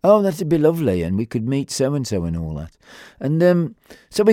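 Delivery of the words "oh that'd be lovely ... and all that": lightly put-on posh accent; a hint of mock posh. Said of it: "in a posh voice".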